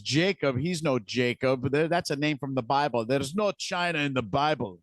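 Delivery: put-on a weak, half-hearted Irish accent; lightly imitating an Irish drunk. Podcaster quoting an Irish drunk, in a faint Irish accent. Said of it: "Sorry, my Irish accent sucks".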